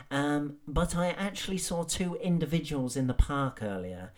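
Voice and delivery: earnest pearl-clutching post voice; lightly voiced concerned Karen; Karen impression. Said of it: "You know the ones I mean. Karen and Jane".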